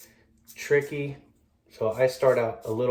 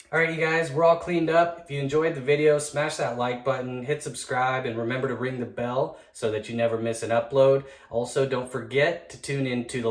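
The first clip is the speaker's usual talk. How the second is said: upbeat outro. Acted.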